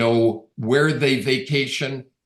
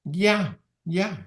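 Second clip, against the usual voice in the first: hesitant client; 7 semitones higher than usual. Retold or imitated. Stella's unsure reply voiced.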